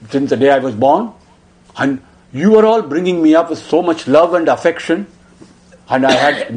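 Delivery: put-on a crying boy accusing his elders; mild tearful outburst; anguished boy. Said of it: "He started talking like that".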